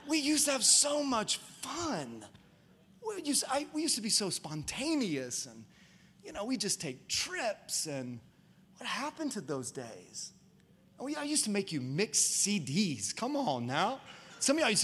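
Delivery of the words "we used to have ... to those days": mock lament. Mock lament over lost fun.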